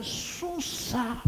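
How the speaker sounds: slow whispered aside. Real, not acted. Preacher whispering the hardship to the congregation. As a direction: hush it, slowly, to drive it home.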